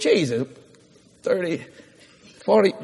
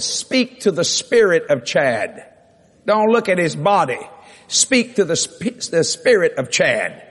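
slow, weighty divine instruction; solemn command; slower than usual. Retold or imitated. The Lord instructs the preacher at the bedside, slow commanding delivery. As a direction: stretch the words out as a firm order.

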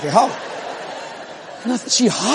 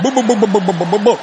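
alternative syllable babble; faster than usual. Retold or imitated. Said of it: "give you another syllable".

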